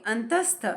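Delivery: अंतस्थ with a quick half स; short s. Shown as a demonstration. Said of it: "short pronounce करेंगे". (आधा स short)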